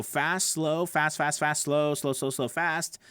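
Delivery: switching fast and slow. Shown as a demonstration. Coach illustrating speed changes to learners, switching fast and slow. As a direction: rattle off each "fast", stretch each "slow". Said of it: "do you speed up? Do you slow down?".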